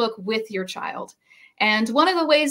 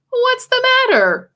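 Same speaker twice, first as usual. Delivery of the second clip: giant asking, concerned; 12 semitones higher, 5 dB louder than usual. Acted. George asks the giraffe.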